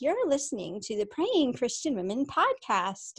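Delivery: mock-serious podcast intro; all serious. Host jokingly recording a test intro, all serious. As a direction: announce it with put-on gravity. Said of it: "I started all serious".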